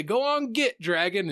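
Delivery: mock command to drive a dragon off; mock shooing. Shooing the dragon in acted quote.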